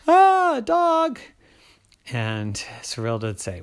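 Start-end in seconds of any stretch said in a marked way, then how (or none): 0.1-1.2 high, slow gasping alarm; high frightened gasp; startled squirrel. Acted. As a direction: startle at the dog.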